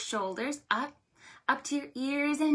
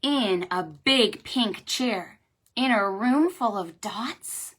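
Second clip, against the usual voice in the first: slow, emphatic picture-book reading; deliberate, louder read-aloud voice; story reading; 5 dB louder than usual. A narrator's reading. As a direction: read it to small children, leaning on each key word.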